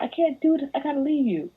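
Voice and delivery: high, whiny mock panic; high mocking imitation of a frightened partner; mock scared girlfriend.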